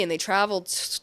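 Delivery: stumbling over the word; tripping on the t sound; stutter. Real, not acted. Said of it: "I'm stuttering".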